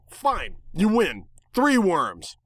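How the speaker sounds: high, wheedling bargain; eager pleading. Acted. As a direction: narrator bargains worms with the bird, high and eager. Bargaining again.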